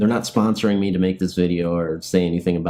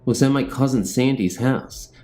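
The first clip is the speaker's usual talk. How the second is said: ghost story reading; 3 semitones higher than usual. Acted. Narrator reading a haunting story to viewers, steady storytelling. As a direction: read the spooky tale to viewers.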